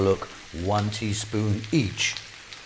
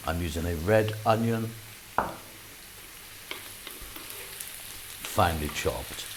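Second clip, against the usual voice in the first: put-on a dad's try at his kids' London accent, lightly done; attempted London accent. Cooking host copies his children's London accent, lightly put-on. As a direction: cook in a light London accent like your kids. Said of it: "I'll be speaking slightly more like my daughter and my son".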